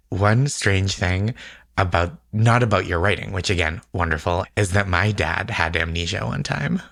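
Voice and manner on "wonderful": normal talking voice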